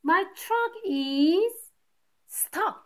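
high and slow, half-hearted complaint; lightly acted grumpy dog; mild snap. Angry dog explaining his truck is stuck, mildly voiced. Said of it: "he snaps".

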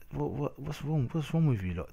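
high-pitched exasperated questioning; stammering into an exasperated challenge. Real, not acted. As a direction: demand it in disbelief, voice jumping up. Exasperated rant at touchy players.

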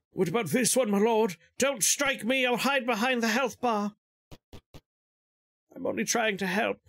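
high, fawning little minion; eager zombie servant. Acted. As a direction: offer it up like a groveling servant. Zombie servant offers again.

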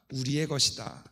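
usual speaking voice

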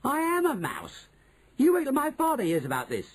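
high-pitched horrified wail; horrified cry. A narrator's reading. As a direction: cry out in appalled realisation. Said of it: "he cried".

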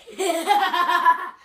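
put-on monster cackle; monster laugh. Child teasing mom after being told off, monster laugh. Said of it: "some kind of monster laughing".

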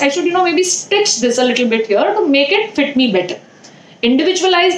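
muffled behind fabric mask; speaking with face covered; through a cloth mask. Real, not acted. Seen 1: Cloth mask covers her nose and mouth through all labelled frames.

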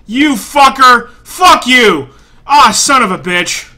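loud, angry cursing; real furious outburst; mad. Real, not acted. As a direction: yell insults at the game. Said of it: "Oh, I'm so mad right now".

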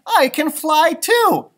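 high, slow, thrilled; joyful cry. Acted. Stellaluna thrilled to find she can fly. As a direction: announce it with pure delight. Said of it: "thought Stellaluna".

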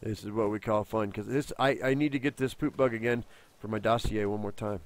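ordinary talk, nothing marked

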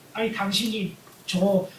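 mock exasperated Peter answering Jesus; cheeky retort. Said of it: "라는 식으로 우리는 성경을 읽을 수 있어요".

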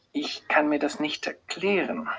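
whispered, baffled. A narrator's reading. Doctor admitting she cannot explain it, whispered. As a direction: whisper it as if to herself.

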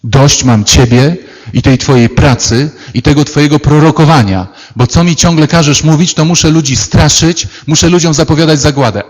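the prophet venting his frustration at God; complaining outburst. Retold or imitated. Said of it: "mówi do Pana Boga". (prorok wygarnia Bogu z irytacją)

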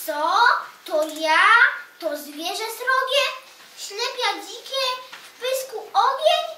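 the basilisk scared by his reflection; frightened cry. A narrator's reading. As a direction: panic at your own reflection. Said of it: "Bardzo siebie się przestraszył".

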